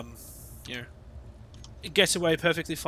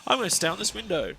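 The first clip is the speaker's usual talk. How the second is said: loud high mocking cackle into taunt; mock the bird's triumph; hammed-up magpie gloating; 8 semitones higher, 17 dB louder than usual. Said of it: "was just like".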